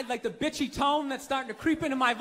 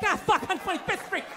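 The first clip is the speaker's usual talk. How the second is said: mock panicky white guy; 8 semitones higher than usual. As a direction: play a scared tourist lost uptown. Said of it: "I'm like".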